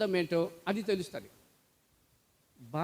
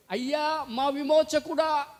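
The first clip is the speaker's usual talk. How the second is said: mourners wailing; 5 semitones higher, 4 dB louder than usual. Retold or imitated. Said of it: "అని వాళ్ళు కేకలేస్తా ఉంటే, ఏడుస్తా ఉంటే".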